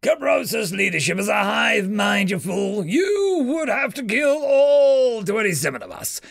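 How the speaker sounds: shrill-pitched alien victor shouting; gloating alien. Acted. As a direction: crow over the pinned human. Alien commander lectures prisoner.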